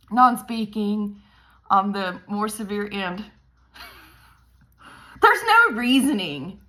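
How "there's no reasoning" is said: rueful laughing through words. Real, not acted. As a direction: laugh it out slowly. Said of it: "I'm laughing".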